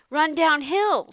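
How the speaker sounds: loud, high, slow cow call; cows' suggestion. A narrator's reading. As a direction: call out slowly like an eager cow. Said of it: "suggested the cows".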